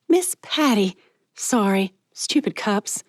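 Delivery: plaster on a smile with your voice; forced cheer. Acted. Mallory bursting out to greet Miss Patty, forced cheer.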